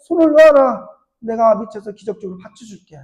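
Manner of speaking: put-on God telling the young man to let go; commanding God. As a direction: order him to let go. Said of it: "하나님께서 기도를 들으시고".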